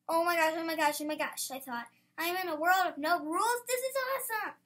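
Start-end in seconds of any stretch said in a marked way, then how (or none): 0.1-1.5 excited. Acted. Excited over the note. 2.2-4.5 excited. Acted. Thrilled at world of no rules.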